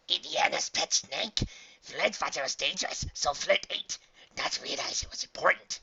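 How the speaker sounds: high, loud simple-minded dog voice; apologetic diamond dog. A narrator's reading. Dog explaining his mistake to the archaeologist, apologetic. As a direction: confess in a high creature voice. Cowed dog confessing in character voice.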